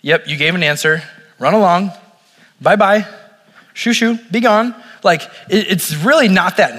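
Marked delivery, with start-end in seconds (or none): 0.0-4.8 mild, offhand wave-off, rising at the end; dismissive brush-off. Retold or imitated. Jesus brushing the woman off, a lightly dismissive shoo. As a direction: shoo them off like a stray, half-joking. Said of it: "some people would say it was more like".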